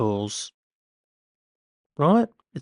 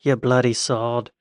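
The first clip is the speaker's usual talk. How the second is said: mock British accent; imitation British street insult; slower than usual. Shown as a demonstration. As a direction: swear in a put-on British accent. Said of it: "say it with a British accent".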